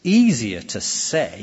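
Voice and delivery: slow, weighted "say"; stress on SAY. Shown as a demonstration. Preacher explaining the emphasized reading, slow stress on "say". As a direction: draw the phrase out and land on "say". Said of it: "if you emphasize it like that".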